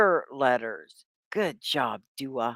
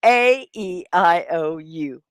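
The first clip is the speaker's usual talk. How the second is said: slow drill; 5 dB louder, slower than usual. Shown as a demonstration. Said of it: "Say again".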